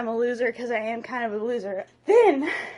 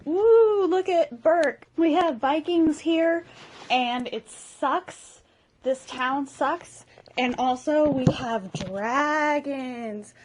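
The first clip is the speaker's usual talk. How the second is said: voiceover narrator; 3 semitones higher, much slower than usual. Acted. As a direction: narrate Berk like an epic movie trailer. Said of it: "so you're like".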